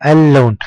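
"اللون" with the l held as if said twice; doubled lam. Shown as a demonstration. Teacher demonstrates the shadda, long l in "اللون". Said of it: "تنطق وكأننا ننطقها مرتين".

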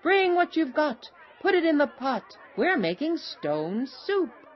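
high, loud chant-like call; rallying shout. A narrator's reading. Travelers urging the child to add the carrot, shouting. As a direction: call the townsfolk in, high and punchy. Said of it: "shouted the travelers".

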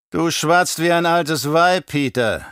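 slow, icy contempt; ice-cold. Acted. Baron coldly rebuking his mentat, slow icy contempt. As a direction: freeze him out, word by word. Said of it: "mit eiskalter Stimme".

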